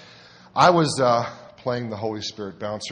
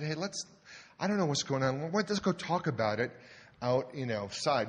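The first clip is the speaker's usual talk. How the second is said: put-on softer, hushed words to a drunk man; quiet calming; 3 semitones higher, 6 dB quieter than usual. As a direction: settle him down gently.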